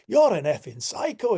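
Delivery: high, loud retort; mock accusing cry. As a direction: throw the accusation out high, imitating a rattled man. Imitates frightened driver's accusation.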